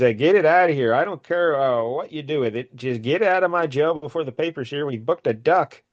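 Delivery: acted irritated order. Commissioner orders duck thrown out.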